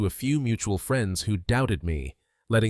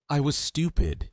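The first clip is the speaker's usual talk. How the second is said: high, tearful outburst; sobbing; 7 semitones higher than usual. A narrator's reading. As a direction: sob the words. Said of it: "she sobbed".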